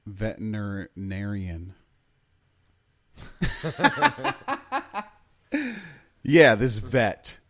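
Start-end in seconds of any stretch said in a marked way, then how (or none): 0.0-1.7 "veterinarian" broken up mid-word, slow and halting; tongue-tied. Real, not acted. Podcast host fumbling a word in the story, tongue-tied. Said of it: "My tongue's not working today". 3.2-5.0 high-pitched burst of laughter; high giggle. Real, not acted. Host cracking up at his own stumble, high giggling.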